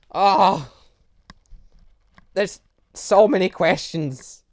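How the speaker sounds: loud, slow, stretched-out groan of disbelief; loud exasperated drawl, pulling out every word; overwhelmed outburst. Real, not acted. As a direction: throw your hands up at all these questions. Overwhelmed by game mysteries.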